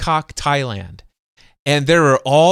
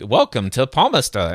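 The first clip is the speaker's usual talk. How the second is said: lightly imitated Australian accent; a hint of Aussie in a repeater greeting. App greeting a newcomer, mock Aussie accent. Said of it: "it has the Aussie accent and everything".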